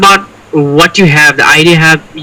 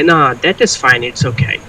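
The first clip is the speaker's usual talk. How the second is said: flat dismissive tone; 5 dB quieter than usual. Shown as a demonstration. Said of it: "But I wouldn't say".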